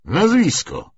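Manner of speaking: sharp, loud, high order; barked demand. Acted. Lieutenant demanding a recruit's name, loud and sharp. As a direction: bark the question at the recruit.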